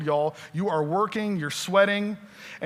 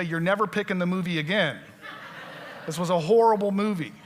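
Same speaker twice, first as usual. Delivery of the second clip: teasing wife; faster than usual. Retold or imitated. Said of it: "my wife would ... and say".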